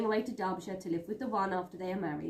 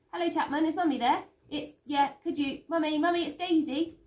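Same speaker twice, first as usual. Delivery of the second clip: higher and louder, a schoolgirl pitching up for a bad line; Daisy on the phone; 9 semitones higher, 6 dB louder than usual. Daisy calls home over a crackly line, loud and high. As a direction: call down the telephone, bright and raised.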